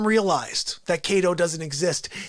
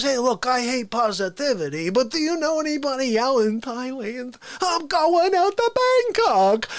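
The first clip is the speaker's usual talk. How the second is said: Fauci voice; 3 semitones higher than usual. Retold or imitated. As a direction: announce your trip like a big shot. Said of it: "He goes".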